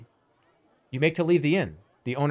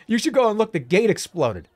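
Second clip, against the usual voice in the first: higher, louder mock-innocent tease; 8 semitones higher, 6 dB louder than usual. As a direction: say it like you didn't do it. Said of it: "Like I didn't do that?".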